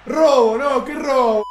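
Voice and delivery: loud, punchy shouts; exclaimed outburst. Real, not acted. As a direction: shout it out in bursts. Grita robo tras el gol. (exclamación a los gritos)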